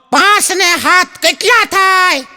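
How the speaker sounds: put-on child voice. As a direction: ask like an innocent kid. Boy voiced asking sum.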